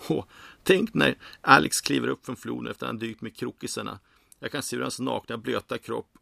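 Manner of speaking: high, swooning fantasy; dreamy excitement. A narrator's reading. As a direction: gush longingly, getting carried away. Bartender daydreaming about Alex.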